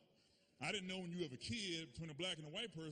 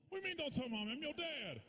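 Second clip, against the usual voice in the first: put-on dad scolding the kids, higher; indignant dad; 8 semitones higher than usual. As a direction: push back, appalled.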